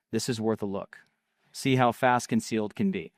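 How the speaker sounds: punchy ad copy with falling line endings; ad read. Acted. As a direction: read it as a sales script, pausing between phrases.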